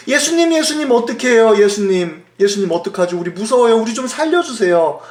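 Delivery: acted alarm, starting high and urgent; imitated frightened pleading. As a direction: wake the master in a mock panic. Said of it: "제자들이 두려워했습니다".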